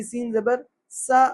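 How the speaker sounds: "سا" with a thin whistled s; slow thin sa on "سین زبر سا"; clear seen. Shown as a demonstration. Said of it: "سین کی آواز نکلے گی".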